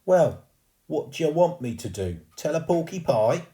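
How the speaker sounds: loud, high Cockney retort; Cockney ghost lad bickering; cockney ghost boy. Acted. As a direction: argue back in Cockney. Cockney ghost arguing back.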